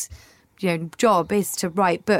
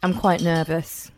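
nervous. Real, not acted. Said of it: "You might sense the tone in my voice".

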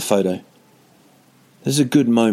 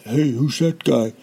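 drawn-out mock suspicion, raised pitch; suspicious; 4 semitones higher, slower than usual. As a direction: slowly size up a stranger, higher. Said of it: "that's what his brain was saying".

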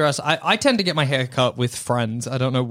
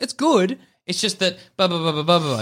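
high mock tactful; 3 semitones higher than usual. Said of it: "You can be like".

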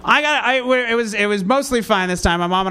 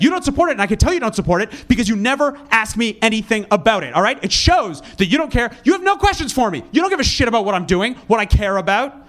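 mock angry accusation. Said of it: "really aggressively".

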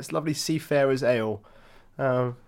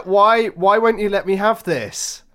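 mock pleading; 6 semitones higher, 6 dB louder, slower than usual. Real, not acted. Pleading to be left alone.

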